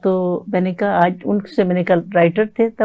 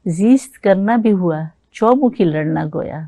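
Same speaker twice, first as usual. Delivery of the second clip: slow, measured ghazal recital; ghazal recitation. Acted. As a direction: recite it like at a mushaira.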